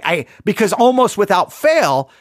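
normal talking voice

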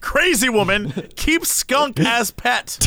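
mock headline. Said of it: "should be".

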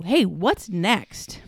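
slow, bright "Hey, what's next?"; turning "Now what?" into eager "Hey, what's next?"; upbeat, hopeful. Shown as a demonstration. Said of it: "look at it like".

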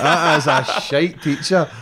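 laughing. Real, not acted. Laughing at the teacher.

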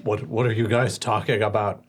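lightly voiced half-orc; half-orc sounding like he has a cold. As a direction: try out a half-orc with a stuffy edge. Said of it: "is that your half orc voice?".

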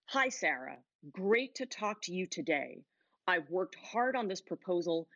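every sentence ends falling, sure and steady; downward inflection. Shown as a demonstration. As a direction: land each phrase down with confidence. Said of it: "I'm gonna aim down".

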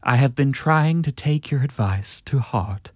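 put-on slow old Hollywood transatlantic accent. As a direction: read it slowly like a transatlantic film star. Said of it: "so this is in that voice".

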